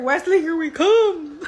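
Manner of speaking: slow, high, laughing cheer; gleeful cheer. Real, not acted. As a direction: drag it out with glee. Cheering a character's arrival.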